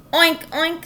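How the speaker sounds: cheerful piggy oinks. A narrator's reading. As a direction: voice a happy pig. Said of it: "said Mercy".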